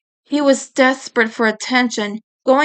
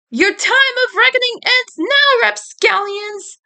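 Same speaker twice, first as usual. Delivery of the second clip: menacing villain; 11 semitones higher than usual. Acted. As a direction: boom a hammed-up threat at the kids. Villain's grand entrance.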